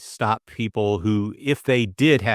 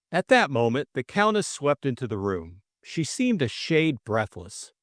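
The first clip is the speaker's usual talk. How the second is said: story narration. A narrator's reading. Reader describing the Countess sweeping in, lightly dramatic narration. Reads novel narration aloud.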